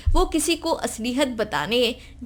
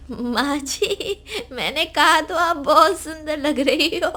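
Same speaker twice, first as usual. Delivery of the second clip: laughing through words; 3 semitones higher than usual. Acted. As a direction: try to talk but keep laughing. Daughter-in-law laughing through words. (हंसी रोकते हुए बोलना)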